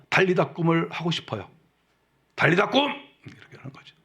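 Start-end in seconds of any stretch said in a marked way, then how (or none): 2.3-2.8 calling out loud. Shown as a demonstration. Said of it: "이렇게 저처럼 소리 지르면".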